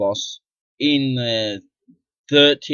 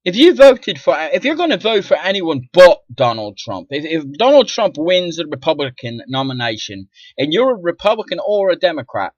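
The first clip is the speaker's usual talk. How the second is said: higher, louder rant, driving the point home; heated shout; 5 semitones higher, 5 dB louder than usual. Real, not acted. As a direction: yell the ultimatum at voters. Ranting ultimatum to voters.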